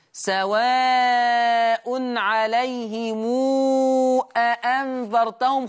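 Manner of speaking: أأنذرتهم with both hamzas fully voiced, drawn-out recitation; wrong double hamza. Shown as a demonstration. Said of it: "خطأ".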